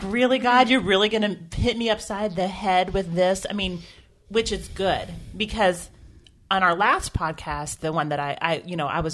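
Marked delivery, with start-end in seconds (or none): 0.0-3.5 incredulous, like being ambushed; playful disbelief; mock exasperation at God. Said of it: "I'm like".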